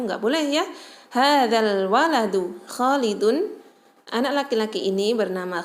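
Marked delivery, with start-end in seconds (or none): 1.1-3.5 hadzal said slowly with the lam sounded; teacher model pronunciation; slow model reading. Shown as a demonstration. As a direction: read it slowly for students to copy. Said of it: "perhatikan cara bacanya".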